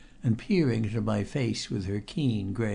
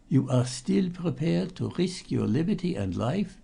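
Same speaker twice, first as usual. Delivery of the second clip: hoarse and grim; 6 semitones higher than usual. A narrator's reading. Old nun warning the visitor, hoarse and grim. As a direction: rasp the question with dark meaning. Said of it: "in a hoarse voice full of grim meaning".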